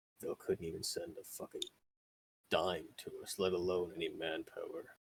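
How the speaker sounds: muttering grumble. An old town guard lowers his rifle at passing special forces, grumbling. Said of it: "he just sort of grumbles".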